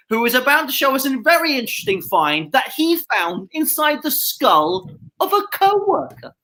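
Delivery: lightly voiced upbeat show host; TV presenter. Host welcoming viewers to the Antiques Roadshow in a light TV presenter voice.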